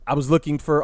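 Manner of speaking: ordinary delivery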